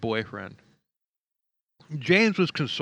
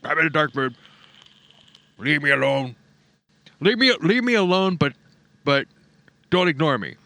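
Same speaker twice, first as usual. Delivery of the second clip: mocking sulky voice. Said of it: "total narcissist bullshit".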